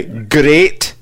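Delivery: "Great" in a demonstrated Scottish accent; teaching the Scottish way of saying "Great". Shown as a demonstration. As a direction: model a Scottish "Great" with a short, pure vowel. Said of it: "here's how to do a Scottish accent".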